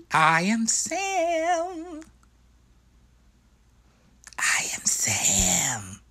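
high, slow, eager little Sam. Acted. Sam pestering his friend, high and eager. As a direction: chirp it out like pesky Sam-I-am.

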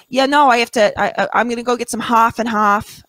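put-on part-British old Boston accent. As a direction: imitate the aunt's old-time Boston vowels. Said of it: "old Boston, it's almost, um, it's, like, part British".

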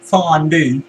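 "fine-doo" in a put-on Swedish accent; mock Swedish accent. Shown as a demonstration. Gamer showing how they will pronounce fondue, mock Swedish accent. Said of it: "in a Swedish accent".

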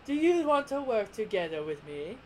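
put-on dub villain voice; Frieza. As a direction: coax with a sly lilt. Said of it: "Frieza just smiles and he's just like".

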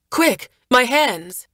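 put-on narrated girl's urgent cry for help; urgent yell. A narrator's reading. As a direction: yell it out like an order in a fight. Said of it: "she yelled".

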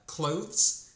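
"clothes" said just like "close", ending in z; simplified CLOTHES. Shown as a demonstration. Teacher offering an easier way, "clothes" as cloze. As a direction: say "clothes" slowly without the th. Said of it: "можу рекомендувати вимовляти".

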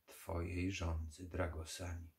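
unhurried, hushed put-down; quiet correction. Acted. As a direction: correct him calmly, taking your time. Vampire calmly corrects the necromancer.

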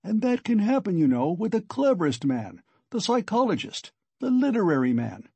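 lightly voiced teasing investigator; chatty, lilting needling with little chuckles; Porfiry.

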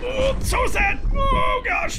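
very high, loud squeal; panicked yelping. Real, not acted. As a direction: squeal as the shark attacks. Attacked by the returning shark.

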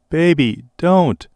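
high loud pleading scream. Acted. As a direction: scream to stop him. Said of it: "Dakota screamed".

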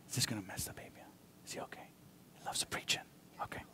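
hushed whisper aside. Real, not acted. Pastor whispering an aside about a baby in the room, hushed.

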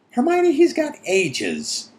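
loud, high, exasperated snap; snapped. A narrator's reading. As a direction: snap at her in a high, drawn-out protest. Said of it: "snapped Ron".

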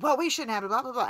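mocking complaint. Teller mocks the agitated mother complaining about being singled out, whiny and indignant. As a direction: mimic her huffy entitlement.

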